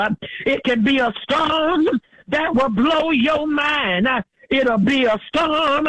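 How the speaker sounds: rhythmic sermon cadence with uh fillers; fervent Black church preaching. Real, not acted. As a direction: preach it to the church, carried by the spirit. Preaching to the congregation.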